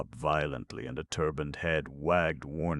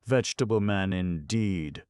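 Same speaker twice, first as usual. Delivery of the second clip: louder, higher scornful roar; 5 semitones higher, 5 dB louder than usual. Acted. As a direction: roar the words in contempt. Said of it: "roared Irashi".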